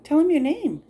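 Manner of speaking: coaxing bird. Real, not acted.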